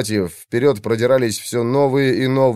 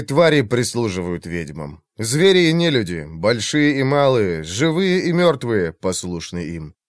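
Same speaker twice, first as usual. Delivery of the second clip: solemn recitation. A narrator's reading. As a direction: intone it like an old scripture. Opening incantation-like prologue.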